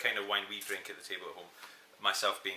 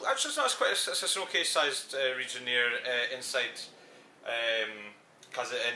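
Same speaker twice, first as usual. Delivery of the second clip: louder, hammed-up Italian accent; 3 semitones higher, 7 dB louder than usual. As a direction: play the proud Italian winemaker accent. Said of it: "Would you like me to do it in an Italian accent".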